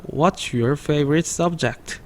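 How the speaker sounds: teacher shows the fluent linked reading. Shown as a demonstration. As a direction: glue the words What's your favorite subject into one flow. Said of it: "조금 빠르게 붙여 읽으면".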